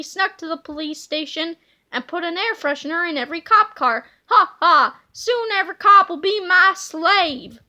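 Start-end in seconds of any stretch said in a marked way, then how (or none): 4.3-7.6 louder evil gloating; villain voice. Acted. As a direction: cackle and brag. Petey gloats again.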